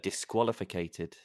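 "Disqualified" drawn out slowly, falling; slow, savoured word. Shown as a demonstration. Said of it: "Is it even a word?".

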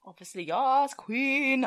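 loud, rising camp eagerness; gushing mock enthusiasm. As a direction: play up the delighted yes. Answering the magic trick offer, acted.

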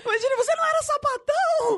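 laughing high, nearly crying; laughing while quoting mother; laughing quote. Real, not acted. (rindo ao repetir a fala da mãe)

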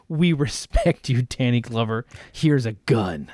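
lightly voiced solemn Predator, slowing and dropping low. Predators honoring Danny Glover with a gift, lightly acted solemn voice. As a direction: speak as a respectful alien hunter, pitch sinking. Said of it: "the Predators were like".

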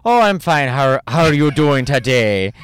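hesitant, badly faked Irish accent. Improvised Grindr call to an Irish guy, bad Irish accent. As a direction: improvise a poor Irish lilt. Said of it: "That's my Irish accent".

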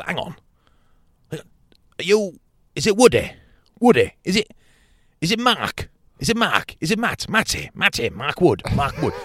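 high, loud puzzled guessing; imitating confused Bentos. Bentos failing to recognise Woody, high and puzzled. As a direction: fumble for the name, baffled. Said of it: "He was".

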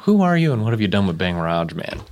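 quick, lightly voiced roommate; mock roommate. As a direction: fire it off fast. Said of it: "I'm your roommate and I go".

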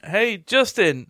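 lightly put-on, slow delivery; mimicked slow, deliberate question; imitated to-camera question. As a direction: draw it out slowly, as if posing for the camera. Imitates Dan Harmon talking to camera.

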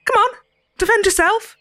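light soft Cockney taunt; goading in a light Cockney. Acted. Ceridwen goading the silent prisoner, soft Cockney. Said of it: "A soft Cockney accent".

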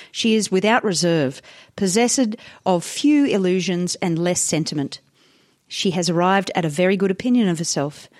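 put-on measured old-newspaper editorial reading; reading aloud. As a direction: read the article out with deliberate phrasing. Reads old article aloud.

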